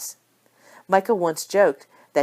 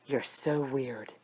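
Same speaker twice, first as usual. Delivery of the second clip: deadpan sister; 4 semitones lower, 9 dB quieter, slower than usual. A narrator's reading. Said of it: "Tracy shook her head".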